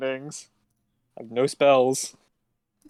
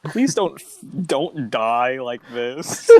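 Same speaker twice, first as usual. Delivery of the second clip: slow, pleading through a laugh; slow, laughing mock plea; much slower than usual. Real, not acted. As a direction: beg him not to die while laughing. Player pleads as character dies.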